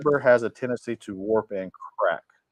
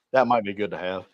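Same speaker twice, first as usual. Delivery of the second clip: yawning; 2 semitones lower than usual. Real, not acted. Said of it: "Sorry, I'm yawning a little bit".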